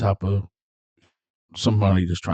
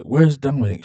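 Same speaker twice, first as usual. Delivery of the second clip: "Where's Dominic" pitched up, pressing for an answer; acted insistent question; 6 semitones higher than usual. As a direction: press her on the repeated question. Acted repeat question, pressing her.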